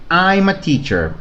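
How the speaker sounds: slow, clear model sentence; teacher modelling for repetition; model phrase. Shown as a demonstration. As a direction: say it slowly for students to repeat. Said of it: "repite después de mí".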